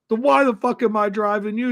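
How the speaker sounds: indignant comic disbelief; playing up the outrage; incredulous. Retold outraged question.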